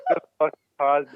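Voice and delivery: slow, laughing through the words; real laughter breaking in, slowed down; chuckling as he tells it; laughing while telling. Real, not acted.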